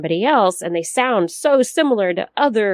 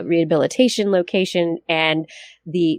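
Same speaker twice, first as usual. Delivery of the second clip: usual speaking voice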